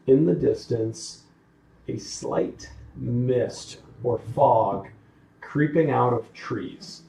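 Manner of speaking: game master narration. Acted. Game master describes the scene.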